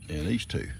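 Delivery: soft, breathless whisper. Real, not acted. Owner whispering about which goats eat together. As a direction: let it drop to a whisper.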